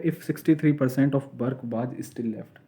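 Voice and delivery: reading the problem aloud, word by word; slow question reading. Shown as a demonstration. Teacher reading the exam question to the class, slow and deliberate. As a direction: dictate it slowly so students follow.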